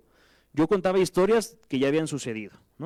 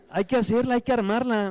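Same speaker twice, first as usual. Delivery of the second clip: eager resolve; 8 semitones higher than usual. Retold or imitated. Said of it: "Pero dije".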